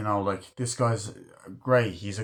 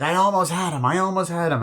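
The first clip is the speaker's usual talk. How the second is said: high mock protest; 7 semitones higher, 4 dB louder than usual. Film fan mimicking "I almost had him", high mock protest. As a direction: wail it in a put-on high voice. Acting out a movie character's protest.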